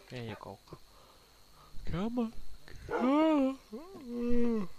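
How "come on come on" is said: high, loud call to a pet; high loud coaxing call. Real, not acted. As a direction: call the wolf over, rising and loud. Calling the wolf.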